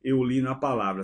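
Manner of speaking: raspy, strained from a sore throat; hoarse voice. Real, not acted. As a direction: speak through a hoarse throat. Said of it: "minha voz hoje tá um pouco rouca".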